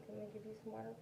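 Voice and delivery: coaxing a pet. Real, not acted. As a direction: gently urge the dog to drink. Coaxing dog to drink.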